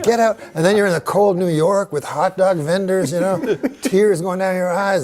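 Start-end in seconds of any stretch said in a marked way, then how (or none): 0.0-0.4 mock stern order. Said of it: "She's like".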